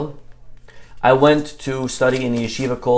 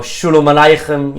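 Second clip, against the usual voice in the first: put-on loud greeting in a Hasidish accent; 3 semitones higher, 7 dB louder than usual. Kid greeting a stranger in the water, Hasidish accent. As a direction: imitate a Hasidish kid's accent. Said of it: "with his Hasidish accent".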